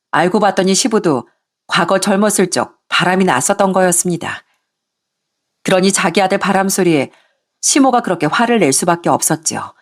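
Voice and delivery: usual speaking voice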